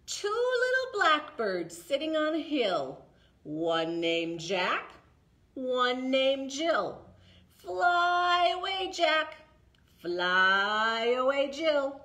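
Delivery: slow, drawn-out rhyme for toddlers; finger play rhyme. Shown as a demonstration. Librarian leads the toddlers in a finger play, slow and drawn out. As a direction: stretch each line so the little ones can follow. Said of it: "Can you do it with me?".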